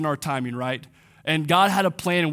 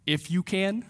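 incredulous; 4 dB quieter than usual. Retold or imitated. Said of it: "And Jesus' response".

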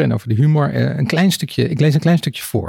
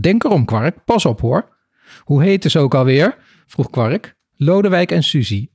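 reading a children's book aloud, with lightly voiced characters; story reading. Podcast host reads a children's book passage to guests, story narration. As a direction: tell the crow's dialogue as a gentle read-aloud.

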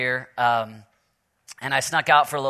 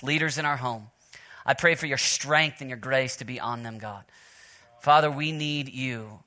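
softer, earnest prayer voice; 2 semitones lower, 5 dB quieter than usual. Acted. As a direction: pray over the men, hushed and sincere. Leads the men in prayer.

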